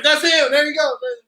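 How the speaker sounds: mock crowd shout. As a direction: call out like a crowd spotting him. Mimics rioters spotting him.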